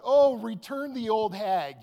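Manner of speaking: loud, slow mock yell at the box. Man yelling at the prize box, loud and slow. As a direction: call it out to the crowd. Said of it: "I yelled out".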